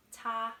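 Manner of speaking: Mandarin first tone on "ta". Shown as a demonstration. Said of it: "one first tone".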